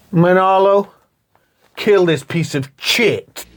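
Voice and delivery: Al Pacino impression. Co-host as boss ordering henchman, Pacino impression. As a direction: draw out the order in a put-on accent. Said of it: "He's like".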